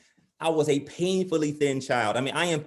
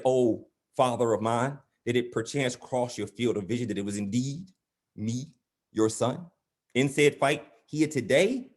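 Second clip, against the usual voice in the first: mock-formal pleading. Son pointedly questioning his oblivious father, mock-formal. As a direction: spell it out with exaggerated formality.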